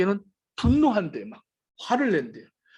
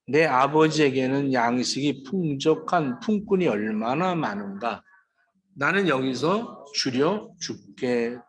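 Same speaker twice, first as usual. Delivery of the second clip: slow, lower voice of a starving son; starving son lamenting to himself; prodigal son lamenting; 5 semitones lower, slower than usual. Acted. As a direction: let the son's despair sink the voice slowly.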